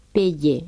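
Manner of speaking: payé con la y partida en dos, pa-yé; French pronunciation. Shown as a demonstration. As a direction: di payé separando la a de la y. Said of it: "Y decimos". (payé con diptongo y palatal)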